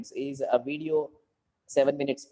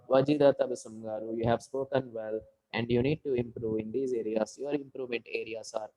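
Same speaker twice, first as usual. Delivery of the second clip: without energy; 3 semitones lower than usual. Shown as a demonstration. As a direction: show how dull a speech sounds with no energy. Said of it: "imagine I'm talking without energy".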